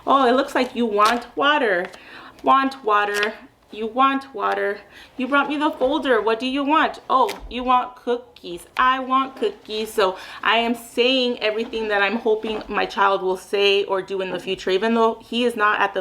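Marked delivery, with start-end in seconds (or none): 0.1-9.9 modeling speech. Shown as a demonstration. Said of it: "I'll say what I want him to in the future say".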